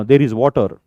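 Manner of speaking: said big and loud, mouth wide open; loud, heavy pronunciation; too loud. Shown as a demonstration. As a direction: overdo it loudly, like a heavy-mouthed speaker. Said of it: "असं मोठ्याने बोलतात".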